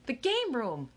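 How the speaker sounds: put-on excited kid calling out; shouted answer. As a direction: blurt it from the crowd. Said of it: "someone shouted".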